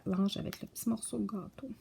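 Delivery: whispered, half to herself. Real, not acted. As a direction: whisper it while looking for the page. Searching for a page. (chuchoté pour elle-même)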